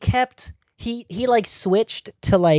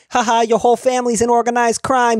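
mock stereotyping jeer; 6 semitones higher, 5 dB louder than usual. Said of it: "every one of them is like".

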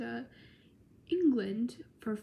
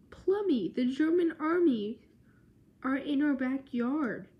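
high, loud urgent warning; alarmed cry; 4 semitones higher, 5 dB louder than usual. Retold or imitated. Wodehouse warning his wife the Germans have arrived, alarmed high cry. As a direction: blurt it out to raise the alarm.

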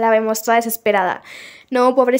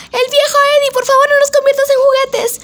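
higher, pleading in fear; frightened pleading; 12 semitones higher, 3 dB louder than usual. Retold or imitated. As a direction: beg the old man not to turn them into toys. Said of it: "Susie grita y dice".

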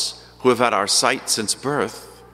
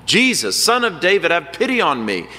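shouting out; 5 semitones higher than usual. Retold or imitated. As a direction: cry out to be heard over a crowd. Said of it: "he starts shouting".

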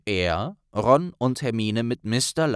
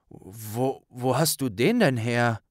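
surprised stammer; slower than usual. Acted. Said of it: "fragte Neville überrascht".

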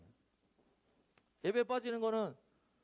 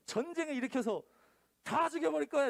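higher, louder declaration of doom; booming God; 7 semitones higher, 4 dB louder than usual. Acted. God announcing war on the wicked, booming. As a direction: proclaim it like thunder.

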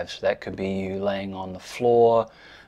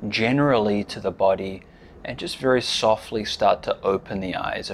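measured guiding voice with long pauses; unhurried meditation instruction, leaving space after each phrase; guided meditation. Real, not acted. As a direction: lead them gently into stillness, pausing between phrases.

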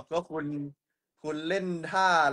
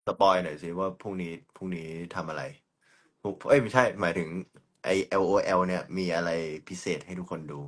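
dropping voice deep; 6 semitones lower than usual. Pretend. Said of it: "ทำไมต้องกดเสียงต่ำ".

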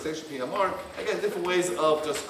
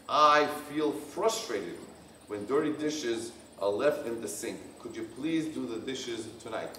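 warm I-statement; 5 semitones lower, 4 dB quieter than usual. Shown as a demonstration. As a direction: ask kindly, without blame. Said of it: "use warm body language and tone of voice".

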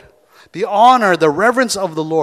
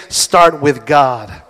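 slow call and response; 4 semitones lower, 5 dB louder, much slower than usual. Shown as a demonstration. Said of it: "Turn to your partner and say".

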